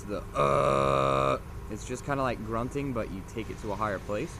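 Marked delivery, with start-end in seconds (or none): 0.0-1.4 grinding throat grunt; false fold growl. Shown as a demonstration. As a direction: grind out the noise. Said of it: "learn how to do the noise".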